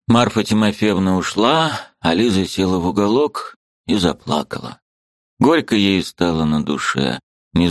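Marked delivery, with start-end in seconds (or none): none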